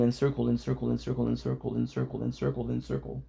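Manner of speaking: going in circles, fading to nothing; fading loop. Shown as a demonstration. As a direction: let it loop and fade away. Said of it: "I'm gonna loop".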